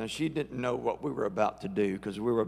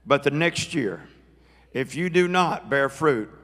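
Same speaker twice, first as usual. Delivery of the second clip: mock Southern accent; 3 dB louder than usual. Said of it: "I spoke in my best Southern accent to my tree".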